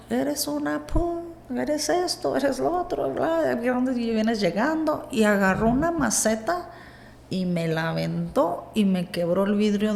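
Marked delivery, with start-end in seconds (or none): 0.1-5.1 mock yelling. Woman retelling her husband yelling at her on waking, mock yelling. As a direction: imitate a scolding shout at reduced volume. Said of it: "me empieza a gritar".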